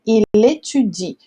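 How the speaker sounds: "il étudie" ending on the I sound; silent final E. Shown as a demonstration. Teacher sums up the rule, silent final E. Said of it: "aqui a gente não pronuncia o E".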